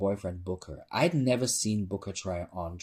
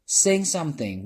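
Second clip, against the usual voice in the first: a high, loud call from the crowd; shouted heckle; 7 semitones higher, 5 dB louder than usual. A narrator's reading. Butcher in the crowd shouts at the host, high and loud. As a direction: heckle the singer from the back. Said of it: "one of the butchers shouted".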